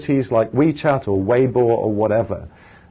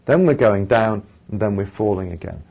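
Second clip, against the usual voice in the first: ordinary talk, nothing marked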